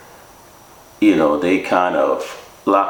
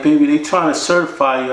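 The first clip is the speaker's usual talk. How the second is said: imitating the lady; 8 semitones higher, faster than usual. Crying staff lady breaks news.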